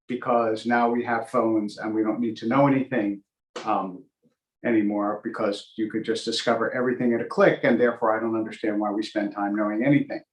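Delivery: understated mock bafflement, played straight; sarcastic. Real, not acted. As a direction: say it dryly, as a sarcastic aside. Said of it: "that is sarcasm, by the way".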